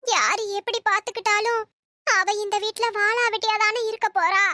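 tearful, despairing lament; crying. Acted. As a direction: lament through tears. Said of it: "அம்மா, அம்மா அழாதீங்க". (அழுகை கலந்த குரலில்)

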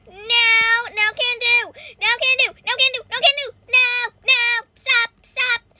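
high, loud repeated refusals; frantic protest. Real, not acted. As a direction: yell in game panic to stop it. Fending off an attacker.

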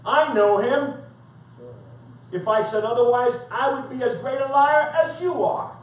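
emphatic, measured scripture reading; forceful preaching. Acted. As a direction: declare it firmly to the accusers. Preaches Jesus' answer forcefully.

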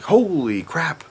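high, slow, stunned imitation of dad; dad amazed. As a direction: drag it out like a half-awake amazed dad. Dad voiced, waking up.

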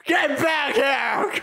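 high, slow, drawn-out holler; hammed-up order in a badly faked voice; terrible Joel impression. Gamer yelling after an escaping opponent, hammed-up impression. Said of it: "That was a terrible Joel impression".

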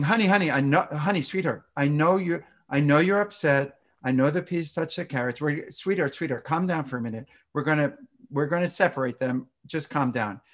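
placating honey-sweetheart voice, calm and even; soothing parent. Shown as a demonstration. Parent soothing an upset toddler over peas, placating. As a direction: hush the child down in a smooth, dismissive tone. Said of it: "rather than saying".

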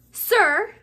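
loud, high call to a teacher. A narrator's reading. Malfoy calling to Snape in class, loudly. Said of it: "said Malfoy loudly".

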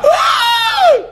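sudden high yelp of shock; hammed-up gasp-scream; mock surprised scream. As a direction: shriek it out like someone caught off guard. Imitating the crowd's surprise.

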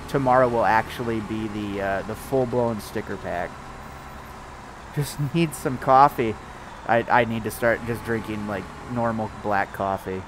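congested, just woke up; a little stuffed up and sleepy; stuffy morning voice. Real, not acted. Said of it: "You sound sick?".

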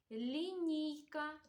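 careful, stretched-out "лінійка"; sound-highlighting pronunciation. Shown as a demonstration. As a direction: linger on the ні in "лінійка". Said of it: "та відстежимо".

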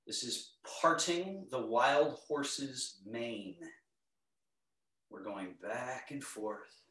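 calm, unhurried movement cues; serene tai chi cues. Acted. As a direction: guide the class gently through each move.

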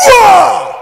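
high loud lion roar on the word; preacher roaring like a lion; mimicked roar. Shown as a demonstration. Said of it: "the lion will".

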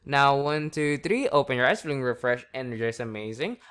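rousing count to wake the subject; energized count-up. Real, not acted. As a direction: snap them awake with energy.

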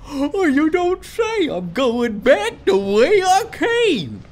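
high, slow sarcastic drawl; mock him with exaggerated sarcasm. Real, not acted. Sarcastic reply to partner.

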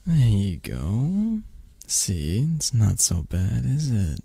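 slow, drawn-out reassurance; soothing encouragement. Acted. Settling a reluctant partner onto a lap, soothing. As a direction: stretch it out tenderly, coaxing.

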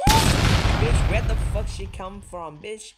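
shrieking high and loud as an enemy jumps out; a sudden panicked shriek that cracks into yelling; startled scream. Real, not acted. Player screaming at an enemy who appears, startled shriek.

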